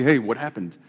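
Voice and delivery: casual, offhand "what happened"; casual greeting. Shown as a demonstration. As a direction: toss it off like a hello. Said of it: "depending on the inflection".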